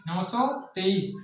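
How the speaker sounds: "नौ सौ तेईस" said slowly as one number; slow teacher's model reading; correct reading demo. Shown as a demonstration. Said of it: "संख्या को पढ़ते हैं ऐसे".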